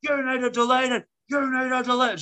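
retold indignant tirade; mock yelling mum. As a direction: rant it like an outraged mother. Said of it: "starts yelling".

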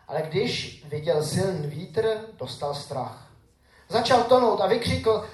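scripture reading. Acted. Pastor reading Matthew to his congregation, solemn and measured. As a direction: read the gospel to the congregation with weight.

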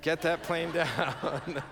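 slow, drawn-out demand breaking into laughter; laughing insistence. Retold or imitated. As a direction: laugh through a stubborn order.

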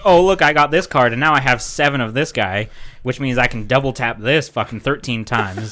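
gloating opponent voice; smug bragging mimic; mocking quote. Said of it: "he was just like".

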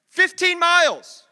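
loud and slow, leaning on each word; booming emphasis. Real, not acted. Preacher to church, booming the distance loud and slow. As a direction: hammer the distance home.

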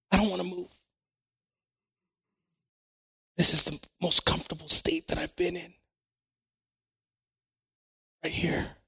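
near-whispered, barely daring to move; hushed retold reply from bed; hushed pleading. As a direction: speak very softly, as if movement would hurt. Retells lying still in pain.

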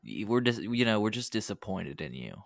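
a hint of hushed parental disappointment; lightly voiced disappointed mom. Host jokingly mimics mom who found pot, lightly disappointed. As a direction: softly imitate a let-down mom. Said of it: "This sounds like my mom when".

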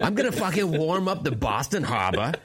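put-on Boston accent, worked up; hammed-up Bostonian bro voice. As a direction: act the tough Boston local.

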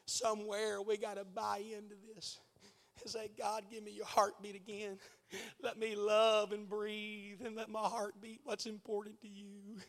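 hushed sermon plea; quiet earnest preaching. Real, not acted. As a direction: drop the voice and plead. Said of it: "you listen while I'm preaching".

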